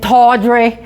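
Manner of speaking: put-on tawdry in a light Boston accent, dropped r, long open aw. Echoing the Boston dealer's word, in a light Boston accent. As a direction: echo tawdry the Boston way, tawdry with a broad aw and no r. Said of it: "that Boston accent".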